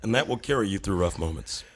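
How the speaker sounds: lofty deadpan sage, cracking up now and then; self-important lecture barely holding back laughs; pompous guru persona. Pretend. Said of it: "would you be so kind to go through maybe a little sequence".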